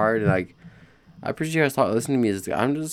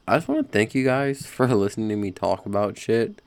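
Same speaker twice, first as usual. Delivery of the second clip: laughing; 3 semitones higher than usual. Real, not acted. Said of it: "let's restart that".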